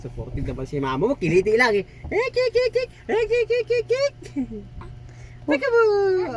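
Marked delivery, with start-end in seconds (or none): 1.9-4.1 tickling noises. Real, not acted. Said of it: "kinikiliti mo".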